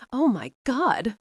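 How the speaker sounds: hammed-up outraged cry of a mother; bellowed. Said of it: "Missus Warfield bellowed".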